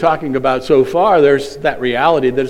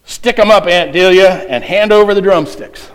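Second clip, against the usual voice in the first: lightly voiced stick-up robber, higher; playful raised demand, a hint of bandit; mock hold-up; 5 semitones higher, 4 dB louder than usual. Quiz's joke hold-up demand.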